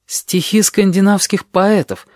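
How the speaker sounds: measured reading of a book cover; reading out a title. A narrator's reading. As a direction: read it out deliberately, voice lifted. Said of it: "прочёл я".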